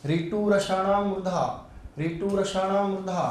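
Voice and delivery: sutra recited slowly, weight on रसाणाम; slow sutra recital. Shown as a demonstration. Teacher reciting the sutra to the class, slow and measured. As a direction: chant ऋतु रसाणाम मूर्धा slowly with रसाणाम stressed. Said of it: "अगला सूत्र है".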